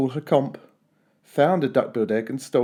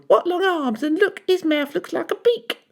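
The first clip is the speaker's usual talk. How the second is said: grumbled. A narrator's reading. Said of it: "she grumbled".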